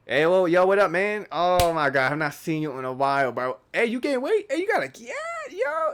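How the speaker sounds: high, loud, excited bro greeting; switched voice. Shown as a demonstration. Vlogger demonstrating his other voice on a long-unseen bro, high and loud. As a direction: burst into a high-pitched hype voice that climbs to a squeal. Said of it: "Watch me switch voices".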